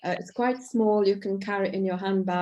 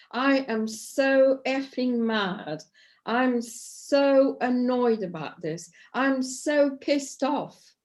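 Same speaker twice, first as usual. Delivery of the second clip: slow, emphatic mock-angry repetition; repeated angry phrases; 4 semitones higher, slower than usual. Shown as a demonstration. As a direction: drum the angry words in while tapping. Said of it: "repeat those words over and over again".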